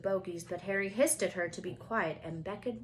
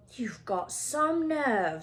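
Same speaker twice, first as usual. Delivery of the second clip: mild loud retort; 3 semitones higher, 5 dB louder, much slower than usual. Acted. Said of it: "said Ron loudly".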